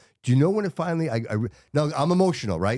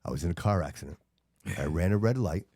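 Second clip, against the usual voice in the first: muffled phone voice; 5 semitones lower, 5 dB quieter than usual. Retold or imitated. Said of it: "he sounds kinda muffled".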